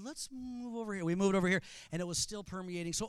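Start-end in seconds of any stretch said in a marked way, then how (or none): 0.0-1.0 soft, overly polite aside; politely shuffle away from the smell; mock polite. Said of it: "very kindly and said".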